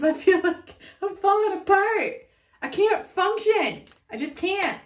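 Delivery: half-laughing mock meltdown; mock overwhelmed rant. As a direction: play it like you're falling apart. Voicing overwhelmed client, rising distress.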